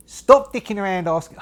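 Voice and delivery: loud, high, botched Australian slipping into Cockney; Australian accent gone Michael Caine. Acted. Major scolds the players, failed Australian accent turned Cockney. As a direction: bark it in an accent sliding to Cockney. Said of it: "I'm doing Michael Caine".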